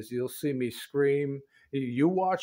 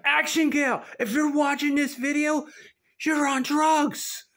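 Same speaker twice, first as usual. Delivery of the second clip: playful shout-out; 13 semitones higher, 4 dB louder than usual. Pretend. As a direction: call the viewer's name out loud like across a yard. Teasing shout-out to a viewer.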